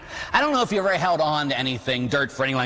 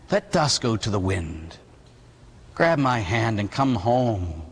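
slow, low, tender invitation; gentle coaxing; 4 semitones lower, slower than usual. Acted. Boy Jesus inviting the old man home, gentle. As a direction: coax him slowly, letting each phrase settle.

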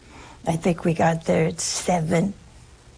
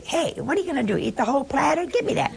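higher, mock-rough family grab for the platter; brash Italian at the table; 7 semitones higher, faster than usual. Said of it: "if you said it that way as an Italian".

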